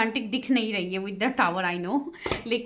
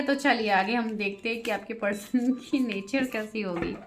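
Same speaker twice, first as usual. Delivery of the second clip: laughing. Real, not acted. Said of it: "मुझे अभी भी काफ़ी ज़्यादा हंसी आ रही है".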